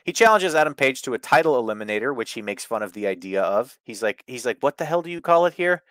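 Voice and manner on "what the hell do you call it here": a light imitation of an aggravating American accent, a bit higher; mock a grating American accent. Wrestler mocking the tournament name, light American accent. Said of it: "He says it in a, in aggravating American accent".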